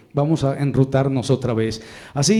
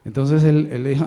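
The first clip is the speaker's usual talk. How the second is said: ordinary delivery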